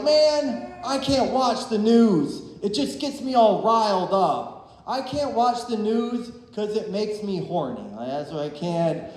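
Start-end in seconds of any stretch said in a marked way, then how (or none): 0.0-7.8 mock worked-up viewer. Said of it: "Some people are like".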